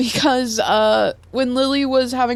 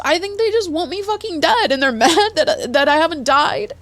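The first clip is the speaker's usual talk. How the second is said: exasperated, half-laughing through the words; bitter laugh; 6 semitones higher than usual. Real, not acted. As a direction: laugh it off though it hurts. Venting about being hunted.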